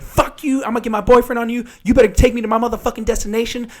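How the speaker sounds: high-pitched sassy demand; mock an irate passenger ordering the driver about; super ghetto woman. Passenger cursing out her driver, high super ghetto rant. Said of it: "She was, like, super ghetto".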